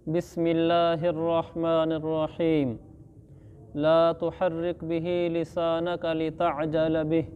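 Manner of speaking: slow, drawn-out Quranic chanting; Quran recitation. Acted. Teacher reciting the verse to students, slow chant. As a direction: recite each word slowly as tilawat.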